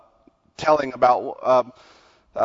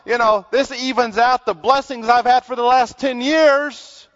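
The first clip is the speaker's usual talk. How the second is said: higher-pitched, emphatic sermon delivery; preaching; 9 semitones higher, 4 dB louder than usual. Acted. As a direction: press the congregation with pointed questions. Preaches to congregation.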